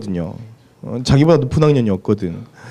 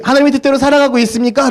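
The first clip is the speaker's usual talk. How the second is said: asking voice; 10 semitones higher, faster than usual. Retold or imitated. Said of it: "라고 이야기를 하면".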